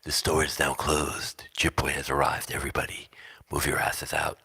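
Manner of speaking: hammed-up PA voice clearing the store; intercom announcer. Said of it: "Bad Brad gets on the intercom".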